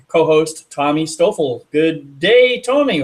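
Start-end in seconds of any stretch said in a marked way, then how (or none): 1.7-3.0 a slight, unintended Irish lilt on a greeting; light Irish brogue slipping into a friendly hello; accidental Irish brogue. Real, not acted. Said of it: "say good day with, like, an Irish brogue".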